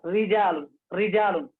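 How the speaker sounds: रिजालुन with a light, thin रा; रिजालुन recited with a fine रा. Shown as a demonstration. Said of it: "यहाँ पर पढ़ेंगे रा".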